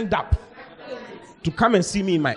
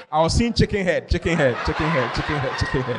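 laughing. Retold or imitated. Pastor laughs seeing chicken head.

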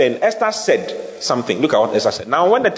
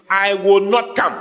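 slow, haughty refusal, pitched higher; proudly; 5 semitones higher than usual. Retold or imitated. Preacher voicing the queen refusing the king, proud. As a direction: say it like a queen who won't be summoned. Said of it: "she spoke proudly".

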